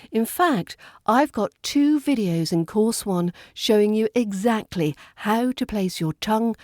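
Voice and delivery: ordinary talk, nothing marked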